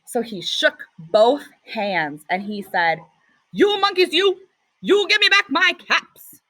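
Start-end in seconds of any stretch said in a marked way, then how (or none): 3.5-6.4 mildly angry peddler. Acted. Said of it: "This made the peddler angry".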